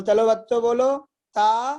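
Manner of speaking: lightly voiced lisping teacher calling the class. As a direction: imitate a teacher who says "ता" for "का". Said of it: "तोतला तो ता बोलता है ना का को".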